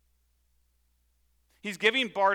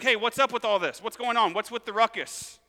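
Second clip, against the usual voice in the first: lightly acted beggar, pitched up; casually voiced, higher questioning of a commotion; puzzled blind beggar; 5 semitones higher, 4 dB louder than usual. Blind beggar asks crowd about the commotion, lightly acted puzzlement. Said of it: "And so he's like".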